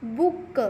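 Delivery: "बुक" with brief oo and released k; teacher sounding out short vowel in "बुक". Shown as a demonstration. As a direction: say "बुक" as BUK-kuh. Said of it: "छोटे ऊ की sound".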